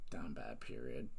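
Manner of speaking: deep mock voice. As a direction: drop way down low on down bad.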